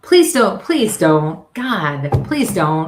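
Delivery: loud mock pleading, please don't; playful loud plea to stop. Real, not acted. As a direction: beg loudly, half joking. Begging co-host not to.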